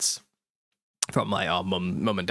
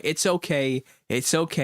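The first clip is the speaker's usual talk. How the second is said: higher-pitched mock parental reassurance; retold soothing; 5 semitones higher than usual. Dad consoling his son over spilt crisps, retold soothing. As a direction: soothe a small child, pitched up.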